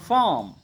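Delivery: ফার্ম with a long "aa" and no r; British-style ফার্ম, silent r; British pronunciation. Shown as a demonstration. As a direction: say ফার্ম as "faam", r dropped. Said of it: "ব্রিটিশরা কিভাবে করবে".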